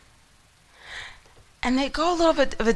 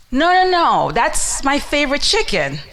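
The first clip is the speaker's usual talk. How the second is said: louder, insistent no no no; loud insistence; 4 semitones higher, 5 dB louder than usual. Acted. Friend loudly insisting to the visitor that it's a chicken. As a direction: shut the argument down firmly.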